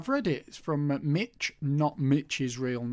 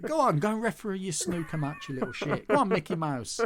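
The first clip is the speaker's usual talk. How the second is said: mock put-down; 5 semitones higher than usual. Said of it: "that is a put down".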